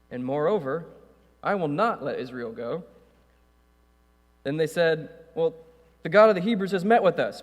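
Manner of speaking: steady measured Bible reading; reading Exodus to the church, measured and clear; scripture reading. Acted. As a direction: read the passage aloud to the congregation. Reads scripture aloud.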